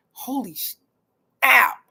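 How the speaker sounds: slow astonished holy snap; mock amazement. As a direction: stretch it out in disbelief. Looking at her wild niece.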